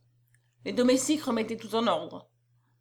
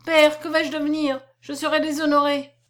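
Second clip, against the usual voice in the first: pleading; 4 semitones higher, 4 dB louder than usual. Acted. Daughter begging locked-out father.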